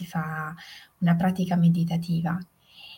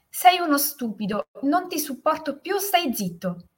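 high-pitched angry outburst; furious shout; 8 semitones higher than usual. A narrator's reading. Boy infuriated by the voice's answer, angry shout. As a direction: yell it in a child's exasperation. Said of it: "infuriato da quella risposta, urlò".

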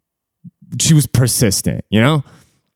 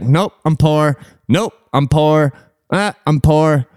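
higher-pitched, repeated brush-off; dismissive brush-off; 5 semitones higher, slower than usual. Retold or imitated. Turning away every stripper that came up, dismissive. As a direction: reel off the same refusal to each comer.

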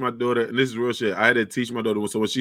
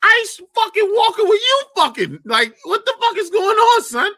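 shocked outburst. Retold or imitated. Dad reacting to the delivery, high shocked outburst. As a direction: squeal it out in total disbelief.

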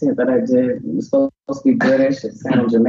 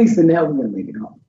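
laughing; 3 dB louder, faster than usual. Real, not acted. Guest laughs repeating joke.

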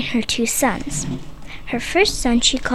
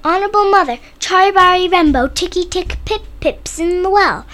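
put-on high, urgent child; 5 semitones higher, 4 dB louder than usual. Boy blurts out to mother.

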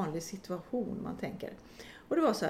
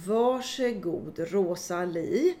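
mildly irritated nurse; 5 dB louder, much slower than usual. Retold or imitated. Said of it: "lite mer irriterat säger".

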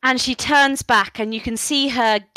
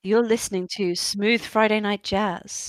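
radio DJ; 4 dB quieter than usual. Pretend. Mock radio DJ intro.

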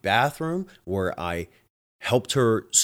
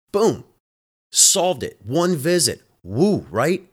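high, loud celebratory burst; mock victory cheer, pitched up and louder; triumphant; 7 semitones higher, 6 dB louder, slower than usual. Real, not acted. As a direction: crow about the win. Triumphant over quick fix.

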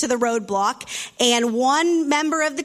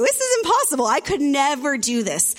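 emphatic agreement. Retold or imitated. Preacher agreeing with girl.

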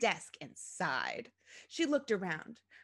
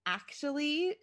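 higher, tentative opener; hesitant restart; 7 semitones higher than usual. A narrator's reading. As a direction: gingerly broach bad news. Daughter hesitantly restarts bad news.

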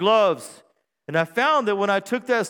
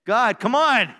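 mock pleading; 4 semitones higher, 5 dB louder, slower than usual. Pleading to God in skit.

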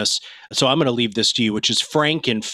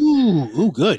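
a bright, higher, eager ooh, good; intrigued ooh; 5 semitones higher, much slower than usual. Real, not acted. To her cohost disagreeing, an intrigued higher ooh. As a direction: perk up at a challenge you're keen to hear. Cohost reacts to a different perspective.

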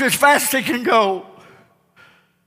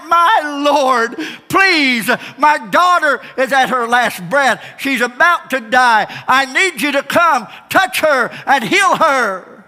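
a touch of pleading, slowing at the end; desperate cry; 6 semitones higher than usual. Acted. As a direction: beg the master for help. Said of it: "and he cries".

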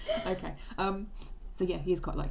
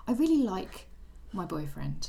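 mock friend's voice; slower than usual. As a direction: teasingly imitate your friend. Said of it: "I thought you were gonna say".

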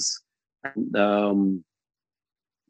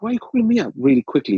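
rushed, fast demand; talking fast; 5 semitones higher, much faster than usual. Retold or imitated. Demanding a quick answer from the friend on stage, fast. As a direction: rattle it off in a hurry. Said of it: "when you talk fast".

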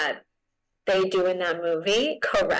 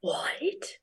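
stunned what; 6 semitones higher, 8 dB quieter than usual. Retold or imitated. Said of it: "and you're like".

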